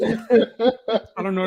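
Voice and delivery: put-on slow, drawn-out Kansas City accent; a bad Kansas City accent, stretched out. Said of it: "That's my Kansas City accent".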